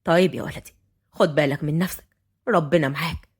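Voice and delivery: low-pitched, gentle elder; tender grandfather. A narrator's reading. Grandfather blessing his grandson, tender. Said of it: "الجد بحنية على حفيده".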